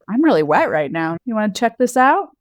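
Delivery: offhand, tossed-out come-on; casual pickup line. Shown as a demonstration. Wife showing how to flirt while looking out the window, casual. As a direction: drop it casually, as if in passing. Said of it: "you just casually be like".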